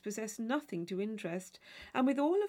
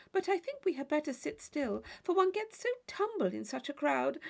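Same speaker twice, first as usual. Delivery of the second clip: fussy chatter; 6 semitones higher than usual. Acted. Mrs Allen fussing over crowd.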